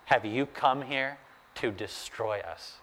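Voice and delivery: hushed, mildly fearful question. Acted. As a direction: ask softly, cowed by the one addressed. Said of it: "the demon is shaking with fear".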